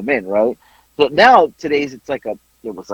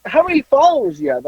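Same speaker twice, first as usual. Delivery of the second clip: mock curious; 11 semitones higher than usual. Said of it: "she's like".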